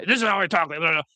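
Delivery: mock-aggressive online tough talk; Andrew Tate. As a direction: push it out high and forceful. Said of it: "aggressive, like, Andrew Tate kind of".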